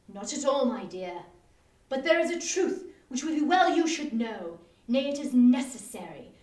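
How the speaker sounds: a husband hamming up grim news; mock solemn. Joshua continues mock solemnity.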